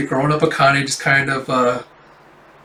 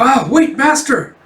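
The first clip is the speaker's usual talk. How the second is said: high, louder call to stop; pleading, pitched way up; panicked protest; 11 semitones higher, 4 dB louder than usual. Retold or imitated. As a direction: imitate someone desperately calling after their teacher. Acted protest as master leaves.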